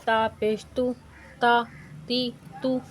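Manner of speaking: put-on clear, measured syllable drill for children; teaching drill. Shown as a demonstration. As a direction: sound out each syllable for the class. (بچوں کو ہجے سکھانے کا انداز)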